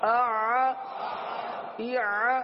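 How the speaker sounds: آ kept going from the throat, loud; loud sustained vowel drill; loud ain drill. Shown as a demonstration. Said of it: "آواز جاری رکھنی ہے۔".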